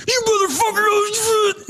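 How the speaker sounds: high, strained, drawn-out cursing; mock enraged outburst. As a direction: curse in a hammed-up high voice. Acting out an enraged man.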